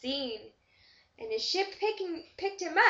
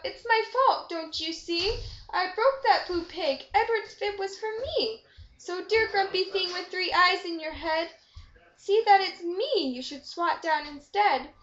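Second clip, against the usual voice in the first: calling out; 4 semitones higher than usual. Acted. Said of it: "I called out".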